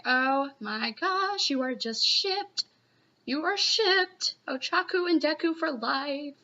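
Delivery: drawn-out, lifted fangirl swoon; fangirl gushing. Acted. Fan declaring Ochaku and Deku a couple, gushing. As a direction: stretch it out, gushing over the couple.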